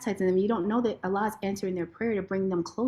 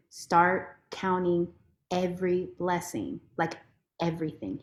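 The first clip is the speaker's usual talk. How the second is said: voice of Allah; 4 semitones lower, 4 dB quieter than usual. Retold or imitated. Allah's voice speaking to her on the walk, soft and low. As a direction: hush it like a calm voice from within. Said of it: "Allah's voice coming to me".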